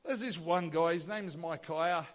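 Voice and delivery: grudging admission with a mild mock pout; sulky reluctance. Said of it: "Ahab's lip sticks out and his face gets long".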